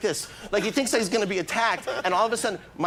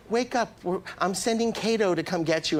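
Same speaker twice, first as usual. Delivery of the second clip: a singer; 3 semitones higher than usual. Retold or imitated. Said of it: "He goes".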